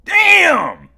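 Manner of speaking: high, loud shout falling away; shocked shout. Real, not acted. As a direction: yell it out in amazement. Shocked reaction to donation.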